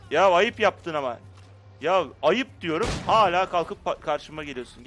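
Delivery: yavaş, yüksek sesle azarlama; "ayıp" diye bağırarak kızıyor; sitemli çıkışma. Acted. (NPC'ye sitem ederek yüksek sesle azar)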